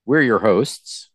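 mock mystical podcast welcome; spooky voice. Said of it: "who's scared by that spooky voice you made".

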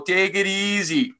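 slow, high bad Jamaican lilt; mock Jamaican accent. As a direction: drawl it like a cheesy island greeting. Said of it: "I understand that's a terrible accent".

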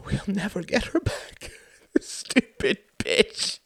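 high, choked crying voice; tearful sobbing. A narrator's reading. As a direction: break down in tears on the words. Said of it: "He burst into tears".

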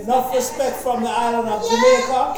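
put-on playful Jamaican accent, lightly done; a hint of Jamaican patois greeting. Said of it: "this is my rendition of my Caribbean accent".

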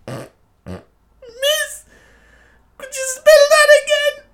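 very high squeaky pupil voice; cheeky pupil. Acted. Pupil asking miss to spell again, very high put-on voice. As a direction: squeal the question in a put-on tiny voice.

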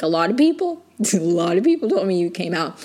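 amused retold reply. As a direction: imitate a reply, laughing through it. Acting out Alicia's teasing reply, laughing.

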